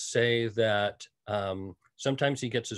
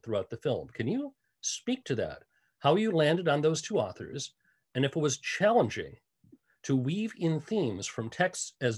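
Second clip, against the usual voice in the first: reading a lengthy question out slowly; measured reading aloud, phrase by phrase; slow, careful read-out. Real, not acted. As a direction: take it slowly so the question can be followed. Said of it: "so I will say it slowly".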